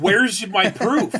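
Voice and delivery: high, drawn-out protest; slow, high indignant challenge; indignant demand. Acted. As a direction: demand it in mock outrage, pitch well up. Acts out protest at baseless decision.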